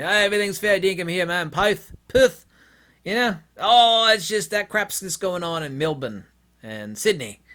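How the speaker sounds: breezy dismissive Aussie, mocked. Australian saying all's fine in Perth, mock Australian accent. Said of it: "what these Australians would tell me".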